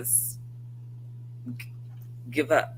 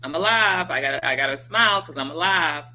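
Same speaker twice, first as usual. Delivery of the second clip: relieved joy; 2 semitones higher, 5 dB louder than usual. Retold or imitated.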